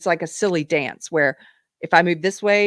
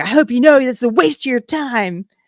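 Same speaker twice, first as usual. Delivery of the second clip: loud, high, mock taunting yell; 7 semitones higher, 5 dB louder than usual. Retelling a heckler's taunt at an event: imitating someone yelling a taunt. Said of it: "she yells out".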